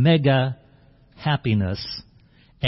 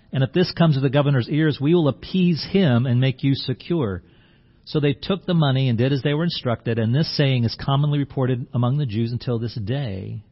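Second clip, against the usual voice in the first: scripture reading. Acted.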